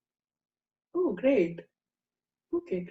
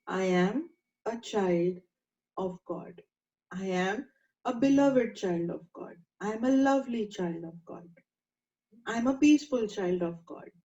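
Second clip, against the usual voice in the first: calm affirmation. Shown as a demonstration. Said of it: "Just keep remembering this".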